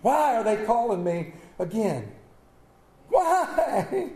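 hammed-up whining complaint about the phone; mock whine. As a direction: act put-upon by the caller. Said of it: "and went".

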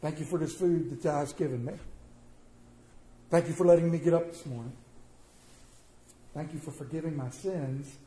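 a quiet grateful table prayer; simple prayer. Shown as a demonstration. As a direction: pray it gently to God. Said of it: "How easy is it to pray".

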